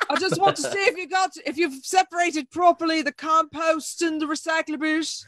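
put-on Irish accent. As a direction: ham up a bad Irish brogue. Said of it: "we also have terrible accents".

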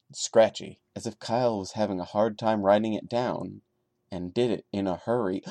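steady storyteller read of a first-person horror tale; story narration. A narrator's reading. Reading a creepypasta aloud to viewers, calm narration. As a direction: tell it like a campfire creepypasta, calm and measured.

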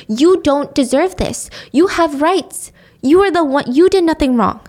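retold mother's earnest reassurance; emphatic reassurance. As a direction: reassure with firm weight on each phrase. Mother comforting her distressed daughter.

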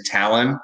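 Talon with stress up front, like "talon"; anglicized surname. Retold or imitated. Pitcher quotes dad's easy version of the surname, anglicized. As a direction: say Talon as one plain English word. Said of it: "not even close to how our name is pronounced".

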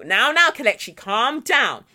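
lightly mock-placating; imitated condescending hush; patronising soothing. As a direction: settle them like a dog. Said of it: "as if you're a dog".

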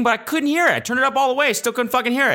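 high, frustrated rant; exasperated. Real, not acted. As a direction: push the pitch right up in frustration. Complains he could not hear.

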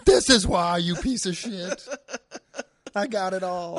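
high, loud hammed-up fury; mock rage. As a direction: play an outraged man revealing his injury. Imagined handless man rages.

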